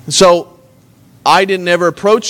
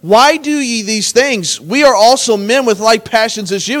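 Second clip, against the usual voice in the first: higher-pitched earnest protest, read aloud; crying out; 4 semitones higher, slower than usual. Acted. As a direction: plead with the crowd in a raised pitch. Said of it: "crying out and saying".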